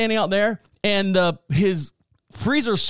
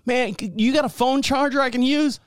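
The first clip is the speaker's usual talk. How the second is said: higher, pleading drifter voice; stranded guy voice; 7 semitones higher than usual. Retold or imitated. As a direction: play a desperate hitchhiker. Voicing the stranded guy again.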